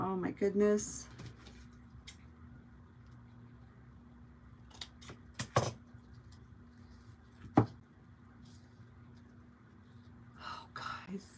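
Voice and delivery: soft, hushed whisper under the breath. Reacting with delight to the viewers while crafting, whispering. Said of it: "I don't know why I'm whispering".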